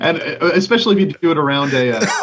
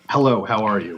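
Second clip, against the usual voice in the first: lower-pitched formal greeting; textbook English; 5 semitones lower than usual. Shown as a demonstration. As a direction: greet like a language-course learner. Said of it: "if you were learning how to speak English".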